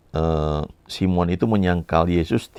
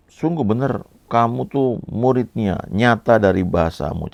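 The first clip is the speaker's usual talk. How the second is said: accusing voice; 6 semitones higher than usual. Retold or imitated.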